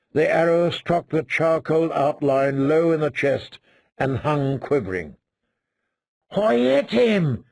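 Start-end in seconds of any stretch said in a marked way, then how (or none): 6.3-7.4 higher, slow, stunned delight; can't believe he actually hit it; shocked. Acted. Fat boy amazed his arrow struck, shocked and thrilled. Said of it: "Sir Piggy sounded shocked".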